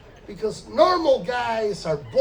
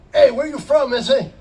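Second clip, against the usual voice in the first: calling out; 4 semitones higher, 9 dB louder than usual. Retold or imitated. Neighbours calling out to him.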